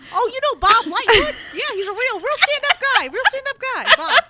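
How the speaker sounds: mock bro voice. Mock guy voice about Bob.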